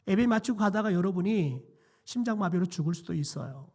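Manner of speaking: ordinary talk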